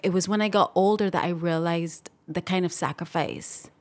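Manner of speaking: choked up, holding back tears. Real, not acted. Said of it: "I get a little choked up".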